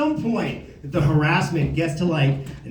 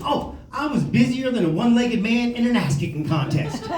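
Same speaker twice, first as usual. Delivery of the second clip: lightly voiced Southern accent, higher pitched; Southern good old boy; 5 semitones higher than usual. Buddy Rick answers how he is doing, lightly Southern. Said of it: "old-timey Southern expressions".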